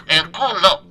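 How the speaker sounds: "El culo" with the accent of Spain put back on; Spanish accent. Shown as a demonstration. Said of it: "Ahora sí, tengo el acento".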